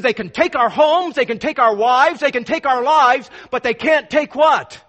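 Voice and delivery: William Wallace rallying. Retold or imitated. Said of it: "But he says this, remember he says".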